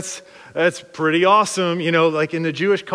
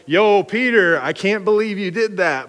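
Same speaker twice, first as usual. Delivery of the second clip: cheering Peter on; 3 semitones higher, 4 dB louder than usual. Retold or imitated. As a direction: cheer him like a buddy. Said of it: "Peter should be like".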